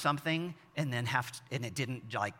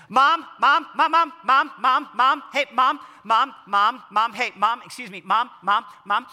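high, loud, insistent calling from another room; kids shouting for a parent; 8 semitones higher, 10 dB louder than usual. Retold or imitated. Kids calling parents from the furthest room, loud and high. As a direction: keep calling Dad then Mom, louder and higher each time. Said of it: "whenever they start shouting like that".

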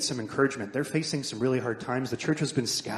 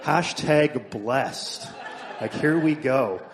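loud, very drawn-out comic enthusiasm; mock gratitude; 6 dB louder, much slower than usual. Pastor joking to congregation about welcoming discipline, hammed-up mock delight. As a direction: ham up being thrilled, stretching the words.

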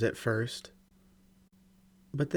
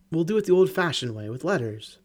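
upbeat cheering up; 4 semitones higher, 5 dB louder than usual. Acted. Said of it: "trying to cheer me up".

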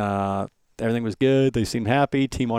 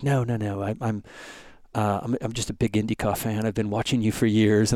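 lightly imitated South African fan; South African accent. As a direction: reassure with a mild South African lilt. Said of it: "he's got this South African accent".

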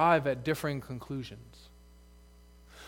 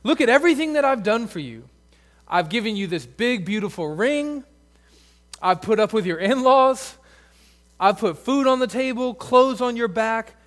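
aggrieved husband; 4 semitones higher, 5 dB louder than usual. Pretend. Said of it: "God is saying to her".

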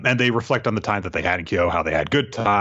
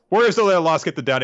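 higher and fast, mocking the motto; mocking repeat; 8 semitones higher, 3 dB louder, faster than usual. Repeating the warrior motto to get a laugh, fast and higher. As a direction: rattle the motto off, half joking.

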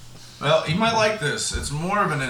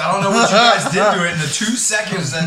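loud exasperated griping; fed up and raising the voice; annoyed complaint; 4 semitones higher, 5 dB louder than usual. Real, not acted. Annoyed the letter got ripped.

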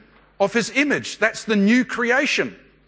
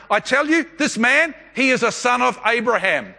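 raised-pitch declaration to a crowd; acted announcement, pitched up; public proclamation; 4 semitones higher than usual. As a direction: proclaim it firmly, phrase by phrase. Acting Jesus's announcement to crowd.

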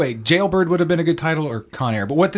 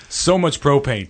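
Donald Trump; slower than usual. Retold or imitated. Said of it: "you sounded like Donald Trump just then".

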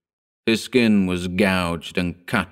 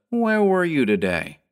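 high-pitched, insistent question; demanding; 9 semitones higher than usual. A narrator's reading. Cop at the wheel questioning Lois, demanding. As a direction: cut in with a pointed demand. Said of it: "the cop behind the wheel demanded".

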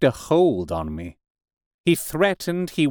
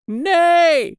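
very high, long, loud cry of refusal; top-of-the-voice shout; 6 dB louder than usual. A narrator's reading. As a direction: shout it out with full zeal. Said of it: "shouted the curate at the top of his voice".

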